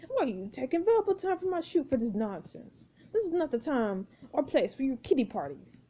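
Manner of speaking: lightly voiced imperious director; a touch of director's exasperation; scolding film director. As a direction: tell off an assistant, stiffly formal. Marcus scolds the actors.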